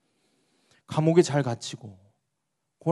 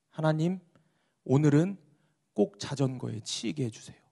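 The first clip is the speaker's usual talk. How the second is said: earnest prayer. Acted. Pastor asking God to let a bicycle hit him, prayerful. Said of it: "목사님이 이렇게 기도를 하셨답니다".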